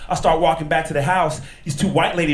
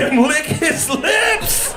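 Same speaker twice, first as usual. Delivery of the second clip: incredulous; 9 semitones higher than usual. Retold or imitated. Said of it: "I be sitting there listening to the radio like".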